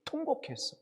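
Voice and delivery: wailed. Shown as a demonstration. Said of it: "심히".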